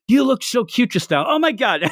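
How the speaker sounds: high-pitched mock gush; gushing girl. Girl telling him he looked cute, high mock gushing. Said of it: "and embarrasses them".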